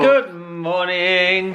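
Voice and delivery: very slow, stretched good morning to the viewers; drawn-out camera greeting. Shown as a demonstration. Greeting the vlog viewers, slow and sing-song. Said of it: "turn the camera around and say hello".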